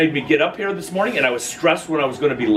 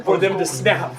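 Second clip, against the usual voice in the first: amused retort; 7 semitones higher than usual. Retold or imitated. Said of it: "You're like".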